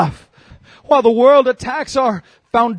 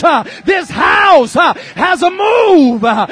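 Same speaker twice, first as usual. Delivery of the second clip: fiery Pentecostal exhortation building to a peak; full-force preaching; 7 semitones higher than usual. Real, not acted. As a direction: preach it hard, punching each phrase with a "huh".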